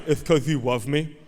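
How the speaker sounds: imitated child's lisp; lisping four-year-old. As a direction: lisp it like a little boy to his dad. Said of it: "he has a lisp right now".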